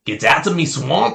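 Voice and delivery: loud, high-pitched Scottish ogre yell; Shrek. Shown as a demonstration. Friend quoting Shrek on request, loud mock Scottish accent. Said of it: "Like Shrek?".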